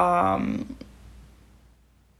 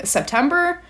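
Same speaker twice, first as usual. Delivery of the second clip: incredulous; 7 semitones higher than usual. Retold or imitated. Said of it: "or I'm at least saying".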